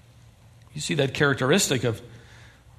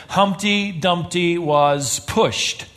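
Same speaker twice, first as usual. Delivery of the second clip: slow quoted graffiti; much slower than usual. Retold or imitated. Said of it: "a wall downtown Philadelphia that read".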